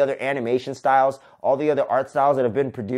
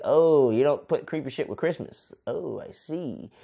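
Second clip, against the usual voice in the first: softer, slow dawning realization; Jack realizing; 4 dB quieter, slower than usual. Retold or imitated. Jack quietly realizes he ruined Christmas, slow and soft. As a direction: let it sink in slowly.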